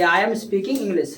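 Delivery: slow, even model sentence for the class to repeat. Shown as a demonstration. Teacher slowly models the English sentence for a shy pupil. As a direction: spell it out slowly, word by word. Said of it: "कैसे बोलेंगे?".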